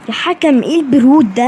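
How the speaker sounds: loud complaint at the referee; angry yell. Real, not acted. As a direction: shout it out in disbelief. Yelling at referee in game.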